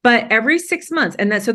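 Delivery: high laugh spilling into fast words; flattered laughing reply. Real, not acted. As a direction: giggle then rush on. Laughs after being called fascinating.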